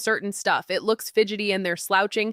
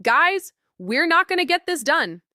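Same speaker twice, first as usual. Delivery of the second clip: alarmed retelling; 7 semitones higher than usual. Retold or imitated. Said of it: "I was like".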